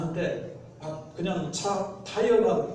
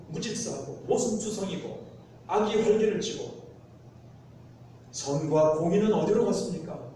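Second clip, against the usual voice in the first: acted, insistent pleading with God; indignant mock prayer of protest; resentful complaint to God. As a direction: press each question in mild exasperation. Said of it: "기다리지 못하고 원망하고".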